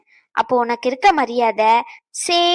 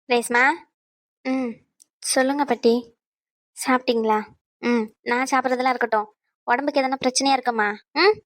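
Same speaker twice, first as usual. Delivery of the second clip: gentle grandmother. Acted. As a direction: coax her gently to open up. Grandmother gently questions Reshma.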